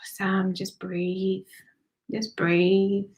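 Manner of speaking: unvoiced whisper of a name. Real, not acted. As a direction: breathe the name softly. Hushed address during channeling.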